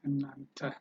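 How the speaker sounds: እናንተ with a short neutral "tuh" ending; pronunciation demo. Shown as a demonstration. Teacher repeats plural "you" for learners, careful pronunciation demo. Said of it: "how do you pronounce this?".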